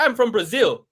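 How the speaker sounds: high imitation breaking into laughter; Moicano impression. Podcaster quoting a fighter's punchline, high-pitched amused imitation. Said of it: "He's like".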